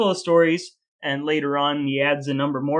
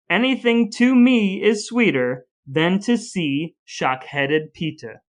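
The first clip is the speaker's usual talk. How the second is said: slow, sneering verse read, pitched up; reading verse aloud; 2 semitones higher, slower than usual. Acted. Reading the Struwwelpeter poem to a co-host, slow and mocking. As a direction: linger on each insult to the child. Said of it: "It goes".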